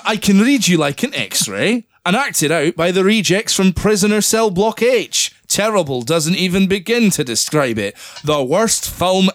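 put-on review read on in a light Scottish accent. Reading the bad review aloud in mild Scottish accent. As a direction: keep the Scot going to the end. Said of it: "it was a very good Scottish accent".

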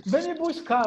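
high-pitched imitated wail; mock crying plea. Friend begging to be picked up, mock crying plea. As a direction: plead in a put-on tearful whine. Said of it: "tá chorando".

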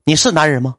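loud, high chant-like cheerleading; pep rally shout. Retold or imitated. Assistant rallying the streamer to shout along, loud chant. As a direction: whip up the crowd with shouted calls.

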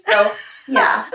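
high, loud laughing aftermath. Real, not acted. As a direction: laugh out of the impression.

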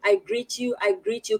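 normal talking voice

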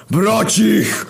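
high, loud demonic roar; inhuman roar. A narrator's reading. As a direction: roar the order at the crowd like a demon. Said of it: "ryknął nieludzko". (nieludzki, wysoki, głośny ryk)

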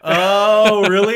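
high, loud amazed question; surprised. Real, not acted. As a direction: react with real surprise. Surprised by Grinch fact.

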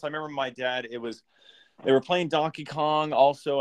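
winded, short breaths after running; out of breath from a run to the kitchen. Real, not acted. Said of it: "I'm out of breath from just running to the kitchen".

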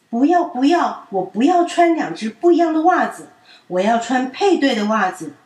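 put-on loud, high stubborn child; angry refusal. A narrator's reading. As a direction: dig in your heels. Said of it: "品品真的超生气的". (气呼呼地拒绝)

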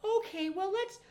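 high, soft, breezy voice, quick on the middle; teasing imitation of husband's calm reply; mock easygoing dad. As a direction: play the endlessly patient dad. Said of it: "And you're like".

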